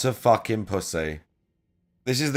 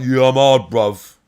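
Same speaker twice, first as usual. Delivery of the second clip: fake tough gangster; 7 dB louder than usual. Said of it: "I'm not trying to be like".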